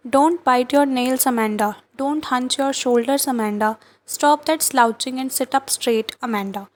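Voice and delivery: slow, measured poem reading; poem recitation. Acted. Teacher reading the mother's nagging to class, slow recitation. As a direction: read each line slowly, pausing on Amanda.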